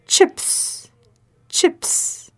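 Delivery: whispered. Shown as a demonstration. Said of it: "C H, ch, ch".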